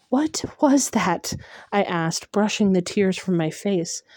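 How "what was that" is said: shaken whisper. Acted. Shaken after the creature passes.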